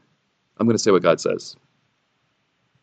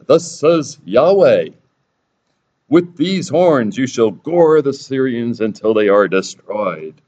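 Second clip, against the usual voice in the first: mock prophet proclaiming; 4 semitones higher, 5 dB louder, slower than usual. False prophet proclaiming grandly.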